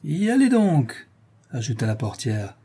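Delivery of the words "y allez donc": high, drawn-out whoop; swooping, triumphant shout; gleeful call. A narrator's reading. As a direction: call out as you tip the pot over them. Concierge pours soup on fleeing bailiffs.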